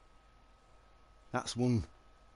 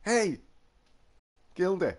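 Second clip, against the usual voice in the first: excited call; 7 semitones higher, 5 dB louder than usual. Real, not acted. Greeting the pet excitedly.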